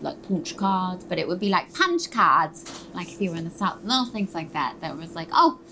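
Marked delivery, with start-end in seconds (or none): 0.0-1.0 slow Northern English accent. Shown as a demonstration. Showing the interviewer Lauren's Northern English punch card. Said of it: "Lauren was from the North". 1.7-2.6 Southern English accent. Shown as a demonstration. Showing how Missus Lovett would say it in Southern English. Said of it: "Missus Lovett is from the South".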